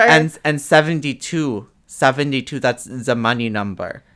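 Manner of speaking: hint of a quirky old Russian lady; Russian nurse accent. Kooky nurse explaining lucky numbers, light Russian accent. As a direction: imitate a Russian nurse sharing her lore. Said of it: "this, like, old Russian lady".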